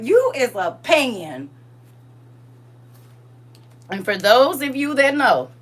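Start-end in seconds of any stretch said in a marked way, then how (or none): 0.0-1.5 slow, drawn-out retold insult; from the chest. Woman insulting her ex for not standing up, slow from the chest. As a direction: stretch it out and say it with your chest. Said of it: "you gotta say it with your chest".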